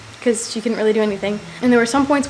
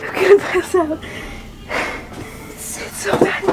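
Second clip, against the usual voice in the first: panicked; 8 semitones higher than usual. Retold or imitated. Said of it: "I was like".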